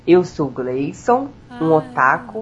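voz sensual. Acted. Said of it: "Faz uma voz sensual".

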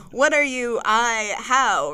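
a startled man caught off guard. Acted. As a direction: blurt it out in shock. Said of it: "You sound startled".

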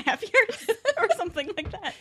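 amused, giggly delivery; laughing while talking. Real, not acted. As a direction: laugh your way through the answer. Laughs while downplaying her tennis.

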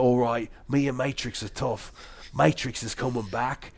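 Australian impression slipping into Irish; a villain voice with a wobbly Irish lilt; accidental Irish accent. Villain announcing Matrix is coming back, botched Irish-sounding accent. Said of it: "this is Irish now".

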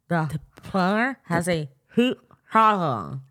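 careful, slow words through pulled lips; mouth stretched open. Real, not acted. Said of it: "hard to get the shit part out of your mouth".

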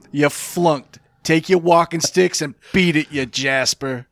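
mild imitation of a fifties tough guy; a hint of a Kirk Douglas tough-guy brush-off; 1950s tough guy. Retelling Douglas's line to the co-host, lightly tough. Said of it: "The nineteen fifties tough guy came out of Douglas".

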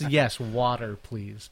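"water" with an open "waw" vowel; standard pronunciation of water. Retold or imitated. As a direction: say "water" carefully with an aw, not "wooder". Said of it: "water's how we say it here".

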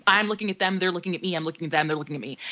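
a tense hushed standoff that dies away; fading standoff. Retold or imitated. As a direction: let it fade to nothing. Standoff with spiders.

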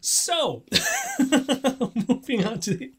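choking while trying to talk. Real, not acted. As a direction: push words out through a choke. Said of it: "he's still choking".

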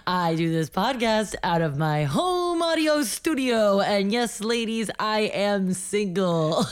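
Eugene Simonson voice. Pretend. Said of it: "new character".

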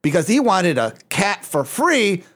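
a light mock Mexican accent, reading the joke aloud; lightly put-on Mexican accent, read playfully. Reading a ChatGPT joke to the hosts in a light mock Mexican accent. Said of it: "I'm doing this in a Mexican accent".

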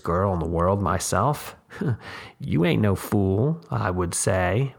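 lightly voiced shrewd old woman, coaxing; a hint of a crafty old mother selling her daughter; old mountain woman.

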